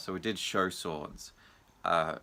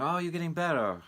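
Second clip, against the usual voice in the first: mock cheery pushy voice; 9 semitones higher than usual. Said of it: "or, you know".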